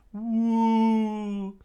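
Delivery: high loud whoop; excited whoop. Acted. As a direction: cheer as you fly.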